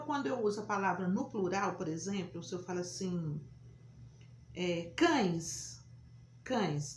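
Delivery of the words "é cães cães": cães with nasal ães, repeated. Shown as a demonstration. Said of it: "tá vendo". (cães com ães nasal)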